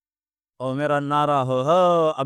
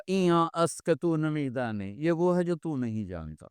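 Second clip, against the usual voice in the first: arrogant reply; 5 dB quieter than usual. Acted. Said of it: "بڑے تکبر سے کہا".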